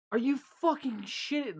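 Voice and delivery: retold outrage at a coworker grabbing fries; pissed off. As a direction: draw it out in angry disbelief, as if retelling. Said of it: "I was pissed".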